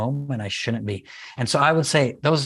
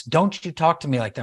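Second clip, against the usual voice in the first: higher, mock parental scolding; matching kid's tone; 4 semitones higher than usual. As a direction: imitate a parent getting worked up at a child. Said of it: "they match the tone of voice of their kids".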